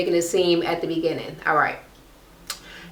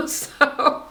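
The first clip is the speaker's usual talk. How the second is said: laughing through words; 7 semitones higher than usual. Real, not acted. Laughing after quote.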